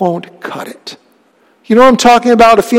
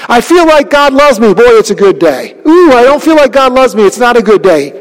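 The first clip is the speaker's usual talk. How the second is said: louder, swinging up and down between lines; mock mood swings; 3 semitones higher, 3 dB louder than usual. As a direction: ham up a fickle believer. Mocking feelings-based faith.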